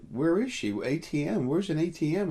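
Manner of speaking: urgent, rushed search, loud and high; panicky, looking around for her; frantic. Retold or imitated. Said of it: "so I got a little frantic".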